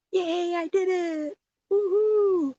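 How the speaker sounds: high, loud cheer of triumph; excited. Real, not acted. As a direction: squeal with real joy. Finally figures out pasting.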